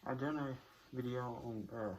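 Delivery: speaking through a costume mask; muffled voice behind a mask. Real, not acted. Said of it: "my voice is muffled 'cause of the mask".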